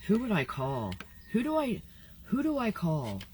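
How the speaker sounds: speaking with a numb tongue, feeling sick; words thick from a numb mouth. Real, not acted. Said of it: "My tongue is numb".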